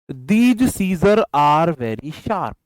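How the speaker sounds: very slow, word by word dictation. Shown as a demonstration. Teacher dictating a practice sentence to the class, very slow. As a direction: dictate each word slowly for students to copy. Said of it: "ये कुछ questions आपके लिए हैं".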